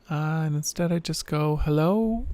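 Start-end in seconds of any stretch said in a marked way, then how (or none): 1.6-2.2 half-feminine middling drawl. Shown as a demonstration. Answering the phone to a business caller, half-feminine drawl. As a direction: let the hello sit halfway between voices. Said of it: "in this half feminine, middling drawl".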